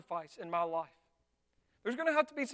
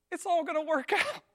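higher-pitched imitated reassurance; lightly mocked cheery comfort; easygoing reassurance; 6 semitones higher, 4 dB louder than usual. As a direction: play the untroubled comforter. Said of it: "comes to me and says".

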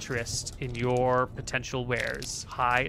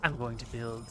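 grand sorcerer. Acted. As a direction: savour the grand plan, slowing as it builds. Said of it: "and then she goes".

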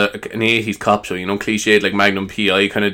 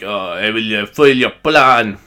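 stereotypical French; 3 dB louder, slower than usual. Acted. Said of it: "he's very stereotypical French anyway".

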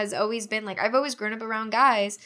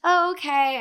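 higher, imitated 'fine then'; lightly mock her reaction; mimicked snippy acceptance; 7 semitones higher, 3 dB louder than usual. Ex-friend answering the girlfriend, imitated high snippy okay.

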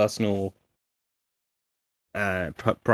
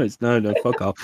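ordinary talk, nothing marked

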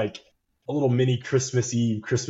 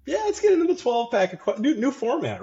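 excited announcer; 14 semitones higher than usual. Acted. Mocking the show's segment title.

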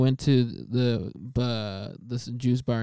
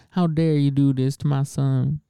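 lightly voiced scolding mother; mock indignant mom; 3 dB louder than usual. Imitating friend's mom yelling at the lady, mock indignant. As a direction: do a half-hearted impression of an outraged mom. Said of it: "That's your impression of my mom?".

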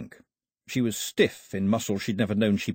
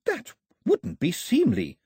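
hissed; 11 semitones higher, slower than usual. A narrator's reading. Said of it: "she hissed".

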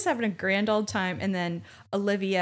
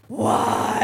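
loud rasping mock cry; hammed-up grief to the sky; mock anguished why; 6 dB louder than usual. Widow screaming at the sky, loud mock anguish.

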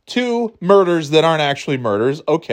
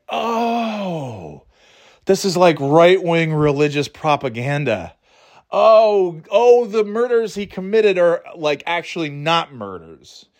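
mock dawning horror; 5 semitones higher, slower than usual. Mocking a viewer's realization.

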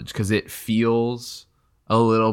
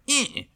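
little swipe noise. Acted. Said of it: "I imagine Aslan being like".

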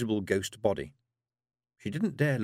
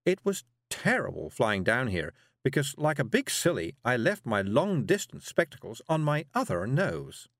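lightly voiced scatty witch, higher; a hint of a flustered, apologetic witch; dotty witch, worried; 4 semitones higher than usual. Miss Level confesses forgotten spectacles, mildly flustered.

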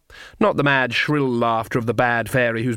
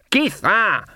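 sharp, higher-pitched summons by name; impatient call; 10 semitones higher, 3 dB louder than usual. A narrator's reading. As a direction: cut in to order her along. Granny summons Nanny once more.

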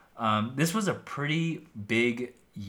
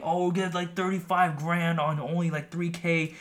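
hyped-up sales pitch voice, higher; scammy guru voice; 8 semitones higher than usual. Retold or imitated. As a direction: sell it like a shady online guru. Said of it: "They're, like, saying".

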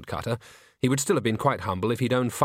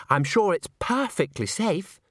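high, slow trilled reassurance; trilling; 8 semitones higher, slower than usual. A narrator's reading. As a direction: trill it out airily, stretching the words. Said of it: "trilled Christine".

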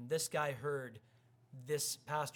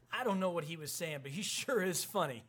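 put-on quoting a girl, higher and louder; lightly voiced girl; imitated girl; 3 semitones higher, 5 dB louder than usual. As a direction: imitate a girl's lively verdict, pitch lifting. Quotes girl's amused verdict.

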